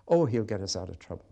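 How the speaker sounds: quick, flippant, careless; mock shallow prayer. Preacher mocking a selfish prayer, flippant. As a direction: toss it off like an excuse. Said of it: "not the prayer".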